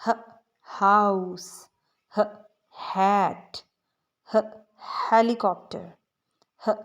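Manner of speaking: "ह" then each word said slowly and loudly; teacher drilling "ह" words aloud; slow, loud phonics drill. Shown as a demonstration. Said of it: "हम इनके साथ इसको पढ़ लेते हैं".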